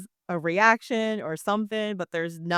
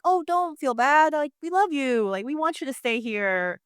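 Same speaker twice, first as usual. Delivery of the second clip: higher, sweet comforting tone; endearing reassurance; 6 semitones higher than usual. Retold or imitated. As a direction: reassure a nervous friend kindly. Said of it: "not an endearing".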